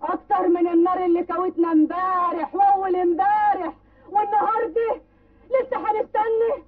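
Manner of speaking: shouting to rouse the crowd, rising pitch at the end; rousing shout. Acted. Mother of the martyr shouts at the villagers, raising a rousing cry.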